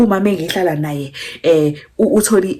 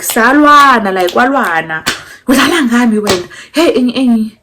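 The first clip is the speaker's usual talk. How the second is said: raised, rapid retelling of his outburst; loud mock outburst; 4 semitones higher, 5 dB louder than usual. Retelling the guy's outburst at her, loud and fast. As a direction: throw his angry Zulu words back loud. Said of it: "say the guy, like".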